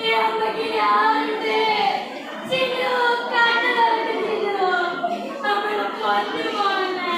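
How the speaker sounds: softly keening over the body, words breaking; a mother grieving over her dead child, softly; broken quiet keening. Acted. (മരിച്ച മകളോട് പതുക്കെ വിലപിക്കുന്നു)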